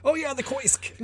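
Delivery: mock Koisk with a high squeak; mispronounced kiosk. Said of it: "I'd be like".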